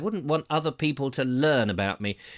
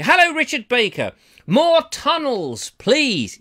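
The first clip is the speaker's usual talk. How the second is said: eager request; 7 semitones higher, 6 dB louder, slower than usual. Acted. Reading viewer request eagerly.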